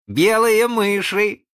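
put-on high, loud, drawn-out child's cry; gleeful squeal of a boy; merry shout. A narrator's reading. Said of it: "весело закричал Задавака".

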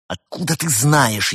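sharp, angry objection; furious retort. A narrator's reading. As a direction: push back hotly. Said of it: "яростно возразил пингвин".

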